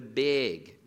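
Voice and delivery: imitated Minnesota vowel in "big"; Minnesota accent. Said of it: "They have a specific accent".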